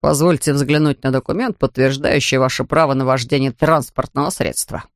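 a hint of stiff official formality. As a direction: read it like a by-the-book officer. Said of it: "официальным тоном произнёс полицейский". (лёгкий официальный тон)

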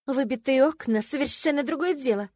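high, loud protest; exclaiming. A narrator's reading. Heroine defending the broken windows, exclaiming. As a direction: burst out in self-defence. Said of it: "воскликнула я".

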